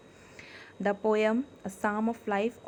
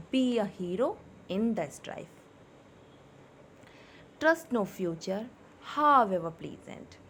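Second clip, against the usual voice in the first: expressive reading with pauses and stresses; poem recitation. Shown as a demonstration. Teacher reciting the poem to her class, expressive. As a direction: recite the poem with feeling for students. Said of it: "with proper tone, intonation, stress and pauses".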